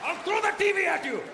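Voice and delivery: hammed-up outraged father threatening; angry dad. Immigrant father reacting to being shushed, mock furious shout.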